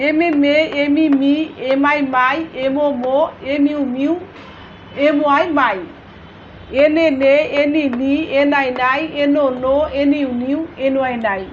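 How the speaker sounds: evenly measured spelling chant, dropping at the end of each set; syllable drill recitation. Shown as a demonstration. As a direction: recite letters then syllable, like a classroom drill.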